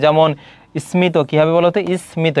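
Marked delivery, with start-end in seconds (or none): 0.9-1.2 স্মিত said "smito", m heard; ম sounded. Shown as a demonstration. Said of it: "ম এর উচ্চারণ হয়". 2.1-2.4 স্মিত sounded out as "is-smito". Shown as a demonstration. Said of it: "উচ্চারণটা থেকে যাবে".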